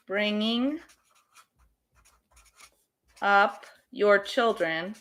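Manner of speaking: slow word-by-word dictation, long gaps; paced like writing on a whiteboard; dictating word by word. Shown as a demonstration. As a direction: spell it out one word at a time as you write. Teacher writing sentence on board.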